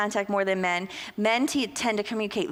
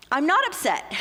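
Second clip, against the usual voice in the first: mock defensive; 6 semitones higher, 3 dB louder than usual. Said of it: "our voices can raise a little bit".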